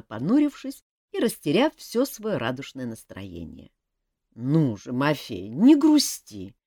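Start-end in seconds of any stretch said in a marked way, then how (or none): 4.3-6.5 gently coaxing, smiling; smiling comfort. A narrator's reading. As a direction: cheer up a sad boy with a smile. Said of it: "улыбнулся король".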